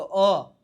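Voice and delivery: isolated vowel અ, sounded out for learners. Shown as a demonstration. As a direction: say અ as a single open vowel by itself. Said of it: "એનો ઉચ્ચાર અ કરવાનો છે". (અ નો સ્પષ્ટ ઉચ્ચાર)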